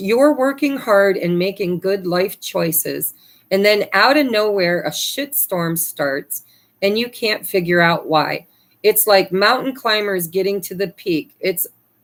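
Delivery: normal talking voice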